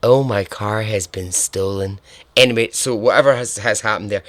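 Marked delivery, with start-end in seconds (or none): 0.0-2.0 lightly faked Canadian attempt; one last half-hearted go at Canadian; mock Canadian accent, only slightly put on; botched Canadian accent. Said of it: "I cannot do a Canadian accent".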